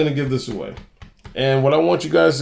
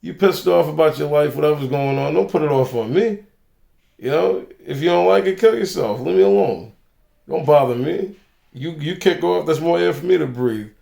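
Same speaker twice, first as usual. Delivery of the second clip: raised, higher-pitched retort, mildly louder; mock-confronting them in a raised voice; retold loud telling-off; 4 semitones higher than usual. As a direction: re-enact telling someone off for all to hear. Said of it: "I said it loud enough".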